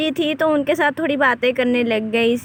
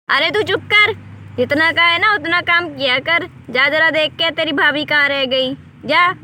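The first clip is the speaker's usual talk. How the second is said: angry scolding; 2 semitones higher than usual. Acted. Mother-in-law scolds daughter Madhu.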